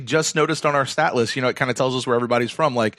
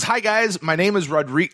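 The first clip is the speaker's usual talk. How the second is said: put-on higher-pitched start of a Spanish accent; aborted Spanish accent; 5 semitones higher than usual. Host reading listener Rodrigo's email, half-started Spanish accent. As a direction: slip lightly toward a Spanish accent. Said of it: "started trying to do that in a Spanish accent".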